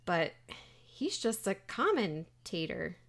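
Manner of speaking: slow, faintly disapproving disbelief; mildly scowling mother. Acted. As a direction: draw it out as a let-down mother. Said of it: "scowls a little bit".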